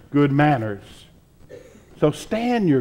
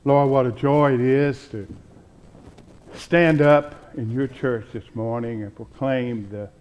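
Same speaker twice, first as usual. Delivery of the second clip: prayer. Acted. Pastor leads congregation in prayer.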